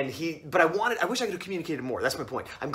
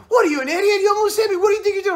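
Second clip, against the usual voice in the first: loud, very high-pitched outraged squawk; mock furious rant; 8 dB louder, faster than usual. Driver accusing narrator of nearly hitting him, hammed-up fury. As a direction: yell it all in one hammed-up tirade.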